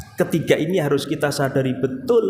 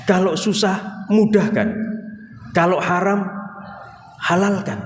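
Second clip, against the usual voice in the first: demanding prayer. Retold or imitated. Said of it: "iki ndonga apa meksa sih".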